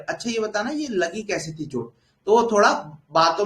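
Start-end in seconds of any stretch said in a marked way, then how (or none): 0.1-1.9 softer, lightly acted tactful question; mild, hushed consoling tone; gentle coaxing. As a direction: ease softly into a delicate question. Gently coaxing an injured person.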